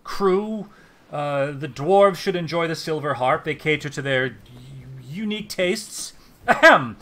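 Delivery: suddenly the nervous, fawning clerk; flustered elf official. Acted. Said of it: "he kind of looks around".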